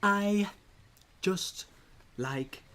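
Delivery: a light poke at him; Bill Wirtz impression. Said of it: "Bill Wirtz, where he's like".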